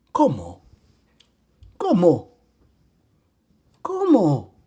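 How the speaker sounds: rising shock in each repeat; stammering disbelief. A narrator's reading. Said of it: "vaciló balbuciendo".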